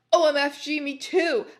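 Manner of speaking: loud, hammed-up squeal; mock shriek. A narrator's reading. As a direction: shriek it in overdone fangirl excitement. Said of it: "I shrieked".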